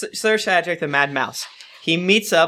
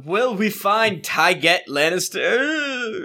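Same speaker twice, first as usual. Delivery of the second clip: mock announcer; 4 semitones higher, slower than usual. Mock announcer teaser, slow.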